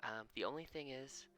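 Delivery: a hint of a gentle mother; lightly voiced mother. GM voices Ursa reading spell.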